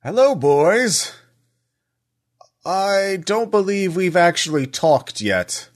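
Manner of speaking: lightly voiced villain, slow and booming. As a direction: call out like a menacing villain from the street. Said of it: "all of you hear a booming voice".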